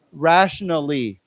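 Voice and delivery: "Rationally" slowly, each syllable clear; word modelling. Shown as a demonstration. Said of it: "Why don't we say it".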